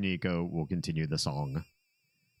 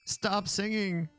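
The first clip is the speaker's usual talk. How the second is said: slow, much higher desperate villain; villain plea; 11 semitones higher, slower than usual. Acted. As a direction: drag it out in desperation. Voicing villain, louder plea.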